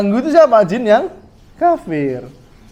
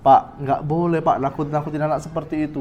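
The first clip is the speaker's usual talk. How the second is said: soft, lower-pitched admonition; łagodne upomnienie; 4 semitones lower, 6 dB quieter than usual. Acted. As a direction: gently advise a parent, voice dropping away.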